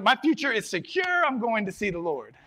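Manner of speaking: very high, loud comic wail; mock doom. Boy walking up to his dad, comic doom. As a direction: wail it in hammed-up dread.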